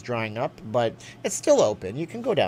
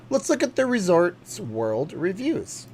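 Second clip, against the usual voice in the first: slow, higher host read; announcer voice; 6 semitones higher, slower than usual. Acted. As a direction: stretch it like a game-show host.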